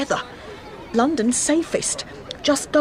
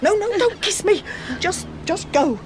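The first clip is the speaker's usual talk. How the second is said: higher, with a broken little laugh; laughing through tears; 7 semitones higher than usual. Acted. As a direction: laugh it off to hide the pain. Tearful farewell to her daughter.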